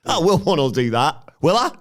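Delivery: high indignant squeak; mock indignant. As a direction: protest like an outraged host. Acted indignant self dialogue.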